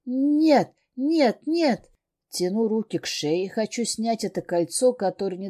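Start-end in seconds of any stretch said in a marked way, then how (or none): 0.1-1.9 high, loud no, no, no; panicked screams. Acted. Heroine screams no while clawing at her neck. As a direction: shriek it in blind panic.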